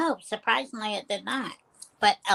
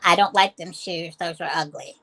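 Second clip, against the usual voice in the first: quoted insult; 4 semitones lower, 4 dB louder than usual. Retold or imitated. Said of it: "they have said".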